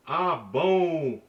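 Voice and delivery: "Ah, bon" with the vowel of "bon" pushed through the nose; nasal sound. Shown as a demonstration. Teacher demonstrating the nasal N, air through the nose. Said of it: "That's the N sound".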